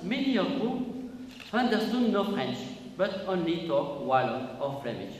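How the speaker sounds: careful, slow English with a French accent. Real, not acted. Speaker reading an English officer's book to a French audience, French-accented English. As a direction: read English deliberately, in a real French accent. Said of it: "excusez mon accent anglais".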